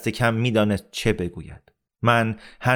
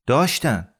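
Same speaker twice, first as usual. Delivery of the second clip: higher-pitched, stubborn retort; insistent contradiction; 4 semitones higher than usual. Acted. Amir contradicts Rahim Khan about Hassan's parents, insistent. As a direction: insist on it in one word.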